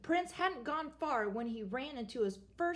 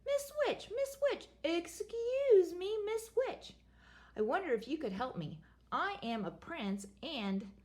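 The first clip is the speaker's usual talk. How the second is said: nervous prince; 7 semitones higher than usual. Acted. Prince addresses second witch.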